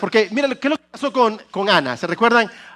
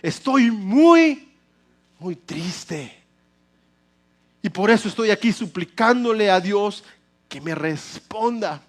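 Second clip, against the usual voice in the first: sad Ana; slower than usual. Retold or imitated.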